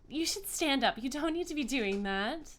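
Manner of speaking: friendly high-voiced deity; joyful goddess. Goddess gently tells kneeler to stand.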